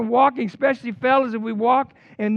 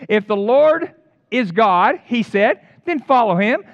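Elijah's challenge; 4 semitones higher, 6 dB louder than usual. Retold or imitated. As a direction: call it out like a prophet daring the crowd. Preacher voicing Elijah's challenge.

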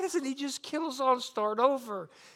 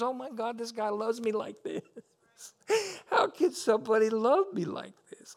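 choked-up wonder at being loved; overwhelmed and close to crying; moved to tears. Real, not acted. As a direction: marvel tearfully, voice lifted. Moved to tears by God's love.

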